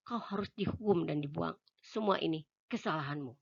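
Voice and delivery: angry accusation. Acted. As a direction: hurl every accusation at him. Imagined accusation the man hears.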